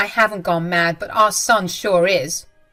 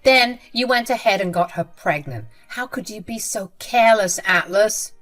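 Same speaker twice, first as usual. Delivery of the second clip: louder, contemptuous listing; mother-in-law scolding her son, louder and scornful; scornful tirade; 2 semitones higher, 5 dB louder than usual. Acted. Jenny insults daughter-in-law.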